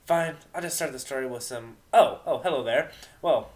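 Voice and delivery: lightly voiced regal pony princess, theatrical; a grand goddess fumbling for her opening line; a touch of royal drama in the voice; moon goddess character. Goddess character greets the audience.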